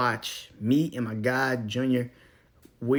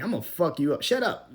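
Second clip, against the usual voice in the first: mock bully threat; 5 semitones higher than usual.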